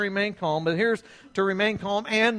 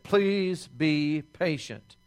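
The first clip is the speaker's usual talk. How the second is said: pleading; 3 semitones lower, slower than usual. Retold or imitated. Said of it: "and he said".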